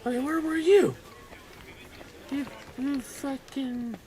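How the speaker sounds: sudden high shout at the screen; yelling. Real, not acted. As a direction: yell it out in frustration. Yelling at game character.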